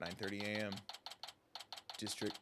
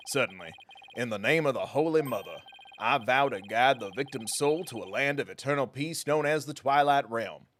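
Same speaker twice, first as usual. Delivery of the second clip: prosecutor voice. Acted. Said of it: "prosecutor voice".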